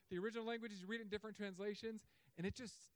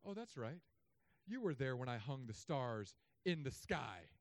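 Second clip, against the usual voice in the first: sarcastic; 4 semitones lower than usual. Acted. God answering Job's complaint, sarcastic. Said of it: "God was sarcastic".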